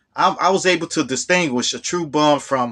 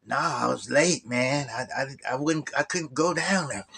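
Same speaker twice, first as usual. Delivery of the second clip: sheepish mumble; 9 dB quieter than usual. Retold or imitated. Phil telling James he overslept, softer sheepish mumble. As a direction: mumble it like you're ashamed. Phil's excuse, retold.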